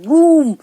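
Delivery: loud booming thunder sound. Shown as a demonstration. Teacher booms like thunder for the children. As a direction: boom it out like thunder. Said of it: "बूम करते हैं ना उसकी आवाज".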